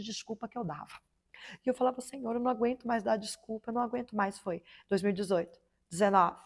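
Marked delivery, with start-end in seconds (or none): 2.0-4.4 softer, worn-out plea to God; exhausted woman pleading with the Lord, quietly; weary quiet prayer. Retold or imitated. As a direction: pray it tired, almost giving up.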